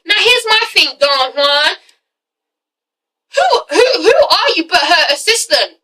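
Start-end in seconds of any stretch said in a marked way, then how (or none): 3.3-5.8 laughing disbelief. Real, not acted. Exasperated at the assistant.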